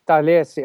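"Thales" with open AH in two syllables; attempted Greek pronunciation. Shown as a demonstration. Guest answering host on Greek name, "Thales" with open AH. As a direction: aim for a Greek "Thales", not THAYLZ. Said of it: "the correct pronouncement".

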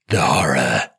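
low dramatic gasp of dread; mock horror. Parent mocking bedtime drama, low hammed-up dread. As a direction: intone it like a doomed film hero.

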